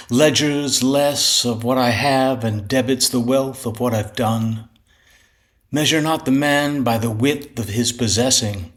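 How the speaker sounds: measured poetry reading with pauses between lines; poem recitation. Acted. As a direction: recite it as verse, line by line. Recites his first poem.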